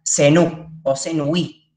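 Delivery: "senú o senuí" slowly, stress on the final ú and í; careful pronunciation. Shown as a demonstration. Teacher modelling the Egyptian word for two, slow and clear. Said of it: "se va a pronunciar senú o senuí".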